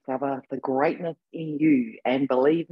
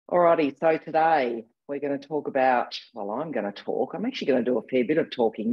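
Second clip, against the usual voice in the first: hoarse from a cold, husky; husky sick voice, a bit rough. Real, not acted. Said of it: "I've got my husky voice going on".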